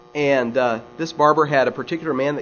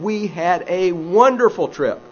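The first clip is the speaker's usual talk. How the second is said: happy; 5 semitones higher than usual. Retold or imitated. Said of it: "and he's really happy".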